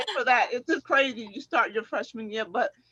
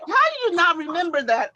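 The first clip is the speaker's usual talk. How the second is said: incredulous friend; 5 semitones higher, 4 dB louder than usual. Retold or imitated. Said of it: "And she was like".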